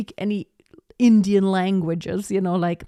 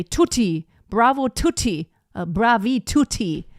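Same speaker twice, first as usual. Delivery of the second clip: put-on German accent. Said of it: "a German would read Italian and say".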